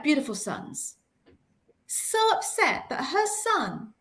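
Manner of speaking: slow, emphatic phrases with long pauses; hushed opening, then pained, deliberate emphasis; heartfelt upset. Real, not acted. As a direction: let each phrase land with real feeling. Recounting a mother's upset.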